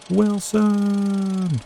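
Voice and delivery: high anguished call across the water; desperate shout. Retold or imitated. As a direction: cry out for a lost friend. Desperate movie quote shouted.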